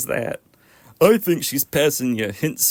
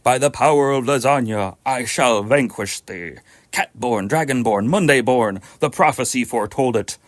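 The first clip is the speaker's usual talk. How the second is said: epic fantasy narrator; 3 semitones lower than usual. Acted. Voicing Garfield as epic hero.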